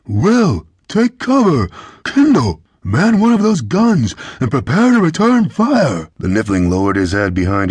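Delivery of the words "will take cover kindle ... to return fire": high, loud urgent commands; shouted orders. A narrator's reading. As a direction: yell to each crewman over gunfire. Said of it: "Kyla shouted over the thunder of the gunfire".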